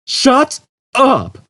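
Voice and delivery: high, loud snap; snapping. A narrator's reading. Zaphod silencing the computer, sharp snap. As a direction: cut it off sharply.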